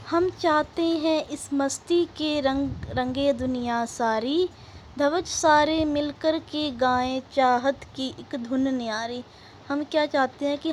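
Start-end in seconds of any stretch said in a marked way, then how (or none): 0.1-9.2 measured, rhythmic verse reading; poem recitation. Acted. Teacher reading the next verse to pupils, rhythmic recitation. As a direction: recite line by line with lengthened words.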